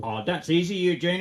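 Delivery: put-on accent fading to plain; Irish accent nearly lost; Irish accent slipping. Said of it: "I'm losing my Irish accent".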